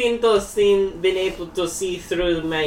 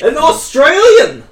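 put-on Australian accent; 10 semitones higher, 10 dB louder than usual. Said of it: "what part of Australia".

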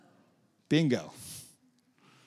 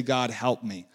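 low, soft prayer; lightly acted, softly spoken plea to God; hushed plea; 7 semitones lower, 7 dB quieter than usual. Models a humble worship prayer.

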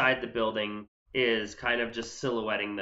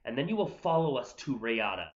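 overheard character; 4 dB quieter than usual. Acted. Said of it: "you basically hear".

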